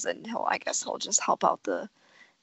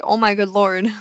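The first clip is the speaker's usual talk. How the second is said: exasperated; 7 dB louder than usual. Retold or imitated. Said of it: "I literally was like".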